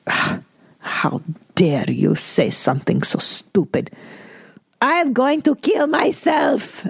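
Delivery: strained, high put-on voice of the raging mother, slow; mocking mother's voice. Imitating her mother refusing cheer, mock enraged mother voice. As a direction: sneer it out as the furious mother, building up high. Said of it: "And she goes".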